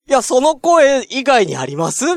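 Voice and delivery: high, slow mock-exasperated comeback; a hint of teasing; joking retort. His retold comeback. (冗談めかしたツッコミ)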